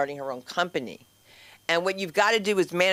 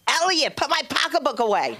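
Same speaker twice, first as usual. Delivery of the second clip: loud, high mother-in-law aside; mock failed whisper; 8 semitones higher, 4 dB louder than usual. Mother-in-law warning Elliot about a guest, failed whisper. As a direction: blurt a would-be whisper far too loudly. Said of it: "Jews can't whisper".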